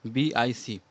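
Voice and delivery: letters spelled out slowly one by one; teacher slowly spelling iambic. Shown as a demonstration. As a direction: spell it out clearly for students. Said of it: "आयम्बिक कहते हैं".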